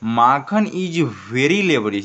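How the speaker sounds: slow, word by word for learners; slow model reading. Shown as a demonstration. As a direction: read it out slowly like a teacher. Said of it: "एक बार देखने का प्रयास करें". (धीरे-धीरे पढ़कर सुनाना)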